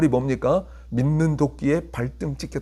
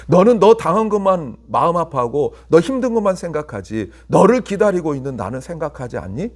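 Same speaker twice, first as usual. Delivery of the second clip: louder, hurt pleading question as God; 4 dB louder than usual. Retold or imitated. Preacher voicing God asking His people, loud pleading. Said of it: "라고 물어보시는 거예요".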